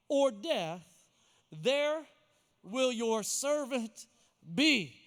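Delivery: slow, with weighty pauses; solemn pledge. Acted. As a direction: measure out the oath phrase by phrase. Solemn oath read as Ittai.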